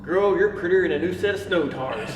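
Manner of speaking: loud, high mock pickup line; playful imitation of a flirty guy; guy's cheesy line. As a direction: ham up a corny compliment. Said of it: "this guy comes up and goes".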